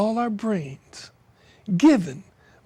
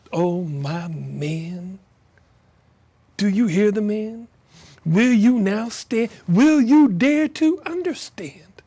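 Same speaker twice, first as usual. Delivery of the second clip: poem recital. Acted. Poet reading a rain poem aloud, declamatory. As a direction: let each line ring like a lament.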